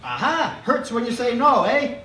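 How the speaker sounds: high, quick, gruff doctor voice; fast funny doctor. A narrator's reading. Grumpy doctor scolding the sick boy, fast and high. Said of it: "talks fast and funny".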